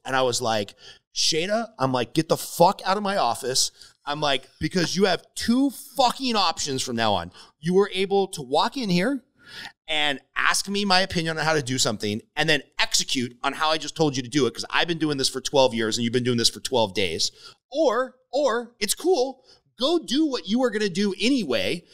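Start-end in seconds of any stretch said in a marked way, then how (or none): 1.1-3.7 half-shouted blowup at a coworker, voice pitched higher; losing it at a pestering mentee, mock-shouting; retold angry yell. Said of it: "I probably screamed at her". 4.6-21.8 heated, higher-pitched telling-off; venting at the mentee who ignores advice; retold angry rant. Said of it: "I probably screamed at her".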